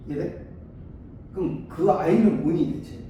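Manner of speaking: ordinary talk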